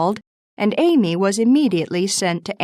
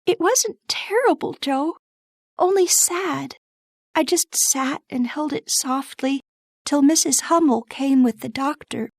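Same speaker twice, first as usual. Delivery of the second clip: put-on high, gentle young girl's voice; Beth's voice; 6 semitones higher than usual. Narrator voices Beth.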